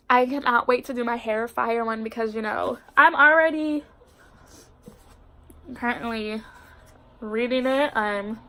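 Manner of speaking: congested, stuffy voice; blocked nose. Real, not acted. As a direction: speak through a blocked nose. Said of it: "I'm sorry if I sound congested".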